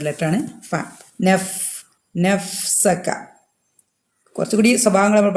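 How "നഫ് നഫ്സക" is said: നഫ്സക with air flowing out on the f; airy fa. Shown as a demonstration. Teacher showing a letter that releases air, airy f. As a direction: let the f in നഫ്സക blow out breath. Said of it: "ധാരാളം കാറ്റ് പു-, പുറത്ത് വരുന്ന".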